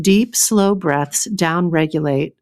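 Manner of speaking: slow, savoring read of the line; slowly savoring the book's words; relished book read. Shown as a demonstration. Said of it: "so please enjoy".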